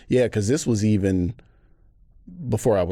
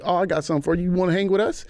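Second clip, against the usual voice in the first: put-on older gang member; 8 semitones higher, faster than usual. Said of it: "Crip, was like".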